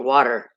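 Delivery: "water" with the T softened to D. Shown as a demonstration. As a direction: say "water" as "wodder". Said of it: "Sounds like it's got a D in it".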